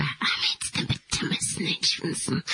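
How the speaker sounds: soft unvoiced whisper. Real, not acted. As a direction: barely breathe it. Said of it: "Why are you whispering?".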